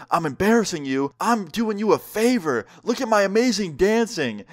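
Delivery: high-pitched mock indignation of a tipsy mother; indignant drunk mom. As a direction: imitate a drunk mom boasting back. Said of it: "She is absolutely hammered".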